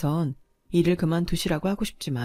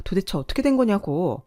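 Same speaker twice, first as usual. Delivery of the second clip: angry demand; 2 semitones higher, 5 dB louder than usual. Acted. Daughter demands answer from father.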